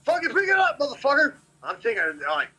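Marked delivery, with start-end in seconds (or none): 0.0-1.3 high-pitched mock yell; high, profane retold holler without full volume. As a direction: imitate yourself cussing out a friend, pitch jumping up. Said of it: "yelling and cussing at Josh".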